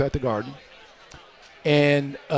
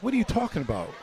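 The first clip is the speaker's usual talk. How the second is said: higher, softer puzzled question; bewildered; 6 semitones higher, 5 dB quieter, faster than usual. Retold or imitated. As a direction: imitate a son baffled by his mother's order. Retells bewildered reply to mother.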